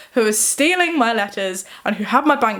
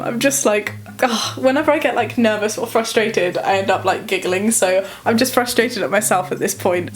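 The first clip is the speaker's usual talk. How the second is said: nervous giggling. Real, not acted. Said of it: "I wasn't smiling at the time".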